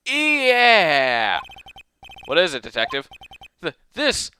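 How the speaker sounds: excited detective. Acted. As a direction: burst out over the clue. Gumshoe voiced excitedly.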